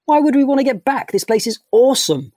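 high and loud, thrilled; loud, high delight; excited protest. Acted. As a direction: insist this place is too good to leave. Rocco keen to stay in wonderland.

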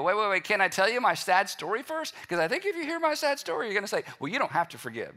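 hammed-up self-pity; whiny plea. A listener begging Jesus to hear their sad story, whiny. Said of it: "Jesus is like".

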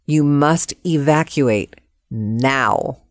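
slow, measured evacuation order; lightly voiced official. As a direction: lightly play an official giving an order, word by word. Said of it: "the woman's voice said".

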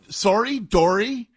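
"sorry" as SORE-ee, matching "Dory"; "sorry" rhymed with "Dory". Shown as a demonstration. Host proving the words rhyme, "sorry" like "Dory". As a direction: give "sorry" and "Dory" the same "oh". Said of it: "They rhyme".

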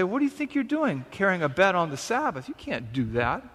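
mock the accusing religious leaders; indignant Pharisees. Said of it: "they come to the man and say".

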